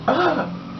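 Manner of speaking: high, short imitated cry of shock; hammed-up startled "ah"; mock startled gasp. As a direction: let out a high acted yelp. Acts her startled cry at the gun.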